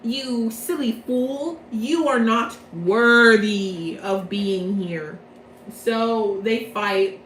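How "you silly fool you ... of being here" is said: villain taunt. Retold or imitated. Villain's taunt in a retold scene.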